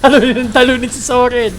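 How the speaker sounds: shouted hype chant; excited cheer. Real, not acted. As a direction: pump up the team. Repeats the rallying cry.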